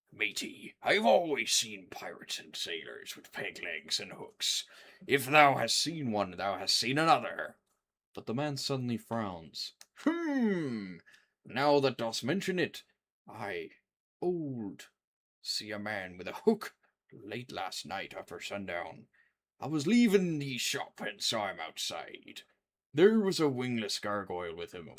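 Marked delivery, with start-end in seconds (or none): 0.1-7.6 put-on gruff old fisherman. Voicing salty old sailor. 10.0-24.9 put-on gruff old fisherman. Voicing salty old sailor.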